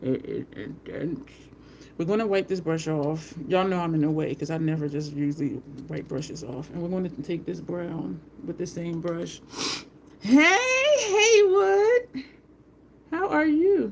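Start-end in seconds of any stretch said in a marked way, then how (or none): 0.0-1.3 slow, breathless hush through the pain; overwhelmed hush. Retold or imitated. Retelling the needle treatment to viewers, slow breathless hush. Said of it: "I was just like". 10.2-13.9 high, loud sing-song hello; excited greeting. Real, not acted. Greeting Haywood as he comes into the room, high and loud.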